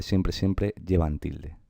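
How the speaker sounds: siempre, siempre stretched out slowly and softly; emphatic siempre. Shown as a demonstration. Teacher to students, slowly stressing siempre. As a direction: lean on each siempre to drive the rule home. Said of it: "lo importante es que siempre".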